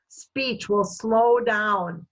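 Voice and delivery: slow, deliberate teaching delivery; slow right down, word by word. Shown as a demonstration. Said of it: "they're gonna say it more slowly".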